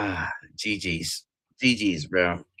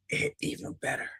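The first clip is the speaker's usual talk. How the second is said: sarcastic aside; 7 dB quieter, faster than usual. Real, not acted. Mocking the winners.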